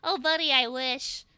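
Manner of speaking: drawn out slowly in a put-on voice; slowed character voice. Shown as a demonstration. Answering a voice changer question in a put-on slow voice. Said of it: "I can talk like this".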